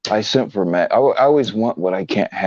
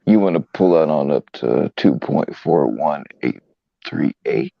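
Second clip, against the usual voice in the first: slow, low sexy voice; lightly seductive, slow and low; 4 semitones lower than usual. Pretend. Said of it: "Gotta talk sexy".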